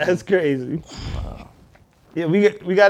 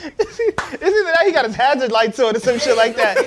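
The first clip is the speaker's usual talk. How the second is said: laughing; 3 semitones higher than usual. Real, not acted. Laughing while asking.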